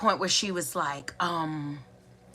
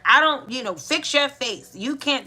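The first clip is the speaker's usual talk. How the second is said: imitating a sharp telling-off, pitched up; retold stern scolding; 4 semitones higher than usual. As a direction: scold the child, mildly raised voice. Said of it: "the way she said it was loud".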